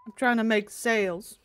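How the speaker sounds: talking while munching; mouth full. Real, not acted. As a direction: say it through a bite of food. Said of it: "Sorry, I was munching".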